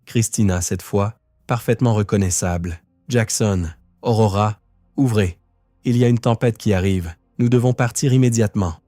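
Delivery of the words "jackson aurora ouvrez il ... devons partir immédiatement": shouting. Acted. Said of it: "cria-t-elle".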